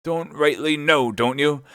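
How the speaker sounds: slow, high throwing-back of his words; scornful drawn-out echo; mocking echo. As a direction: repeat his excuse with scorn. Silver throws Morgan's words back.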